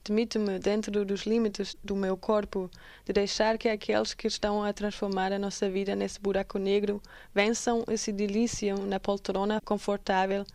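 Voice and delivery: measured Portuguese poem reading; poem recitation. Acted. Presenter reciting an activist's poem to listeners, poem recitation. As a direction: read it out as spoken verse.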